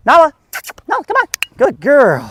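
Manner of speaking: high, excited calling to a dog. Real, not acted. Trainer calling the dog to engage, excited. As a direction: call the dog in, high and playful. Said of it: "I'm gonna get really excited".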